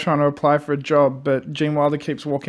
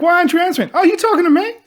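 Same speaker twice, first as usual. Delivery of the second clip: high, loud, laughing retold yell; mock yelling police chief; 14 semitones higher, 5 dB louder, faster than usual. Retelling the interrogation scene, the chief yells, high and loud. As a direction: bark it like an impatient chief. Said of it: "He's like".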